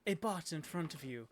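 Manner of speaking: slow, measured narration; dramatic tabletop narrator; game master's scene setting. Acted. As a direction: set the scene with drawn-out phrases.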